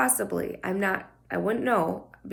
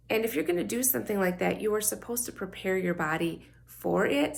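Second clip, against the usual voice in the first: scratchy morning voice. Real, not acted. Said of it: "scratchy morning voice".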